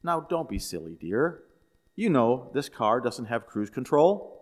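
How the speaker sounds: a touch of wifely sweetness; mildly sweet. Acted. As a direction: gently correct him as a sweet wife. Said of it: "his wife said sweetly".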